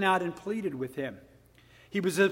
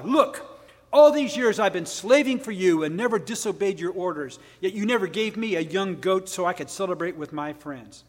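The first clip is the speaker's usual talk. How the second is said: sarcastic superior. Retold or imitated. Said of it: "very sarcastic and superior".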